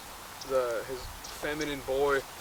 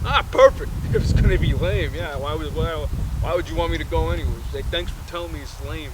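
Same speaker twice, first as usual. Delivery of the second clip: sarcastic dad; 2 semitones higher, 7 dB louder than usual. Retold or imitated. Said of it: "the dad's like".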